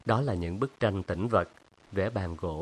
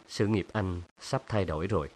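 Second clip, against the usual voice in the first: ordinary delivery, nothing marked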